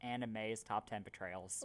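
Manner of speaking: low, soft repeat of the punchline; deflated repeat. Real, not acted. Player repeats the pun after leaving the table, deflated repeat. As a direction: say it quietly, under the pun's weight.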